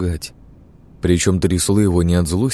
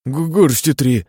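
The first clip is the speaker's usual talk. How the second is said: higher, slow, stammered confession; shaky stammer; 7 semitones higher, slower than usual. A narrator's reading. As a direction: stumble out the answer while shivering. Overdosed patient confessing, shaking. (признаётся, заикаясь и дрожа)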